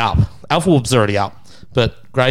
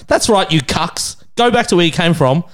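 slightly raised, cocky jeering; retold defiant heckle; 4 semitones higher than usual. Heckler cheered on by crowd, mock defiant jeer. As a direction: re-enact egging on a crowd.

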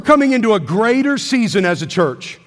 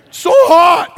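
put-on loud whiny child, higher; whiny kid; 9 semitones higher, 7 dB louder than usual. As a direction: whine it from the back seat. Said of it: "loudly in a whiny voice".

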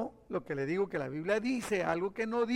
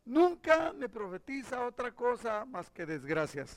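king's complaint; 5 semitones higher, 4 dB quieter than usual. Acted. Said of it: "exclamó el rey de Israel".

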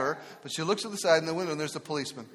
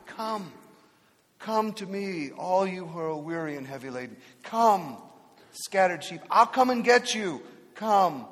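Jesus inviting gently; slower than usual. Retold or imitated. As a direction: welcome the weary home. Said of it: "Jesus says".

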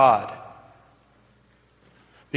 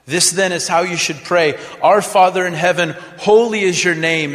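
proclaimed scripture; 2 semitones higher, 4 dB louder than usual. Retold or imitated. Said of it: "is how this prayer starts".

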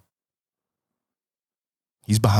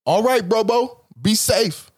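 casual black goodbye; a relaxed "bro, bro" sendoff; black slip; 8 semitones higher than usual. Retold or imitated. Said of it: "letting my black slip out".

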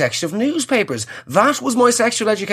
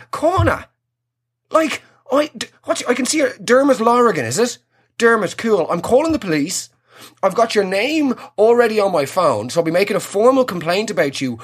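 indignant rant; 3 semitones higher than usual. Pretend. Outraged woman confronting the driver.

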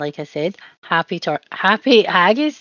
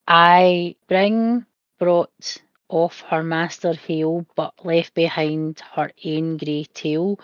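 put-on a Scottish accent held through a recited Burns poem. Reciting Tam O'Shanter to viewers, in a put-on Scottish accent. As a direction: recite the verse in your best Scottish accent. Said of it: "I did try and do my best Scottish accent".

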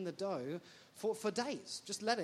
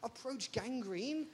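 exasperated; 7 semitones higher, 3 dB louder than usual. Retold or imitated. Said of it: "And you'd be like".

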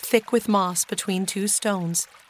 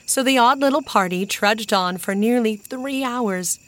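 usual speaking voice

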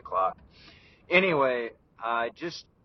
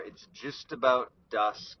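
talking around a cigar; puffing a cigar between words; cigar in mouth. Real, not acted. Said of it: "right now I'm puffing on a cigar".

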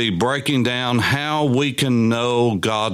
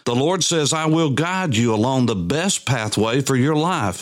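scripture reading. Acted. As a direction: read the psalm aloud, drawing out the line endings. Reads psalm aloud.

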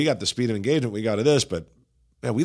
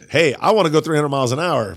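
a bit higher and louder, eager; eager pastor quote; 4 semitones higher, 5 dB louder than usual. Retold or imitated. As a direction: say it like a pastor who wants speed. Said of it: "Pastor Eddie says".

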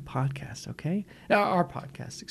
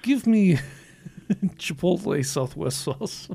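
bad Russian accent; 3 semitones higher, slower than usual. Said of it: "in a bad Russian accent".

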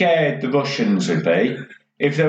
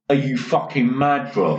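laughing roadman line. Retold or imitated.

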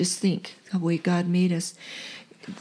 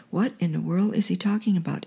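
ordinary delivery

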